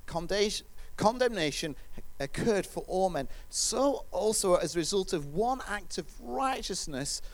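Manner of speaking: measured, deliberate Bible reading; scripture reading. Real, not acted. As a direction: read the verse out carefully, weighting key words. Reads scripture aloud.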